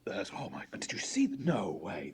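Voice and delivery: excited hushed whisper. Acted. Spectator whispering to a friend about the fight. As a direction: gossip it under your breath.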